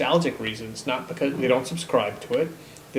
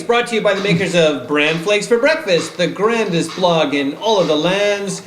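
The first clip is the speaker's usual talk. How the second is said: put-on old radio announcer; 4 semitones higher, 5 dB louder than usual. Sponsor line in announcer mode.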